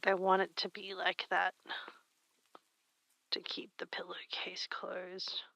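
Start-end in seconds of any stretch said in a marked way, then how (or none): 3.3-5.4 whisper. Real, not acted. Trailing whispered thought.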